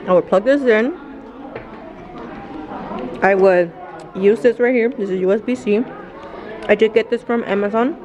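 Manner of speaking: talking with food in mouth; words round a mouthful; chewing while talking. Real, not acted. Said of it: "Sorry, y'all, I'm chewing".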